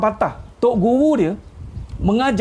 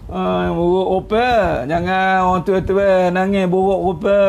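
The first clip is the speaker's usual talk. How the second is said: mock dismay; slower than usual. Mock dismay at a crying adult.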